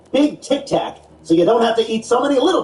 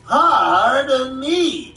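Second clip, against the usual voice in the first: Seinfeld impression; 3 semitones higher, much slower than usual. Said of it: "to quote his famous bit".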